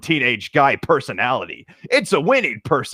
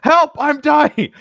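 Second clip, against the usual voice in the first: higher, louder, slow mock death cry; hammed-up dying plea; 13 semitones higher, 5 dB louder, slower than usual. Dying victim begging the shark for help, slow hammy wail. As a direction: drag out a melodramatic plea for help.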